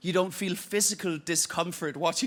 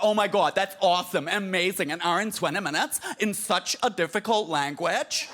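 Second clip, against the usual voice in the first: 1 mock gushing; 3 dB louder than usual. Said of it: "They was like".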